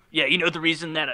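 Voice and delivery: a light impression of the kid Mike; lightly voiced slacker kid bragging; imitating Mike. Telling the hosts how Mike bragged, light imitation. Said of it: "and he talked like that".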